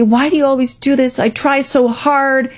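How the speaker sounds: mock the wounded parent who tries so hard; a hint of a hurt, guilt-tripping mom. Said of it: "The parent might get hurt and say".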